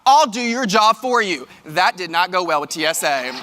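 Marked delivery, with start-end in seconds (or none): 0.1-1.5 retold angry snap. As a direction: hurl it at the agent in a huff. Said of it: "I said".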